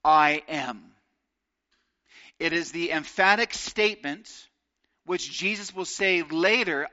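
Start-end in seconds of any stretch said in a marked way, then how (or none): 0.0-0.9 hushed whisper of I am; reverent whisper. Acted. Whispered divine name.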